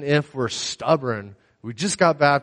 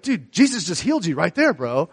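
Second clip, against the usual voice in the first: high, eager mock of the brother; a hint of a hyped younger brother; excited brother; 5 semitones higher than usual. Brother telling the hiker Jesus healed him, excited.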